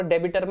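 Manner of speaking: "डेबिटर" with the b sounded; wrong pronunciation. Shown as a demonstration. Teacher quotes students' mistake to ban it, wrongly sounded b. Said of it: "मत बोलो".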